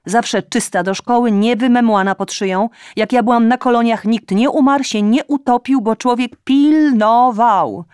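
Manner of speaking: loud, high nagging reproach; scolding mother. A narrator's reading. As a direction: lecture her like an indignant mother. Mother scolds daughter on phone. (matka głośno i z wyrzutem strofuje córkę)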